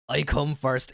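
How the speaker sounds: imitated West Country burr; West Country accent. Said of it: "In the West Country accent".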